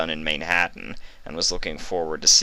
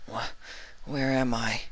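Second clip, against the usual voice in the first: a dazed, higher question; confused question; 6 semitones higher, 7 dB quieter than usual. A narrator's reading. Vinyl waking in a dark room, confused. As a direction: ask it lost and uneasy. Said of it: "she questioned".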